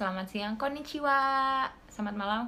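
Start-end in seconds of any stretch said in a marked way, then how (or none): 0.6-1.7 higher, louder and slow "Ohayo gozaimasu"; teacher demo. Shown as a demonstration. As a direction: say it slowly and clearly for learners. Teaching Japanese greetings.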